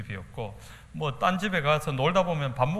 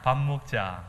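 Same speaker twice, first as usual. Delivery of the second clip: Gyeongsang dialect; 3 semitones lower, slower than usual. Shown as a demonstration. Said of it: "한번 따라해 보세요".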